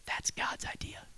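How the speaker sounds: slow hushed whisper. Real, not acted. Preacher whispering the point to the congregation, slowly. Soft closing thought.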